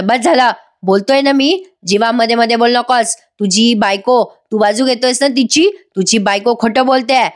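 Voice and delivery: retold indignant accusation; mock rebuke. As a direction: cut him off with mild mock anger. Acted angry rebuke in retold quarrel.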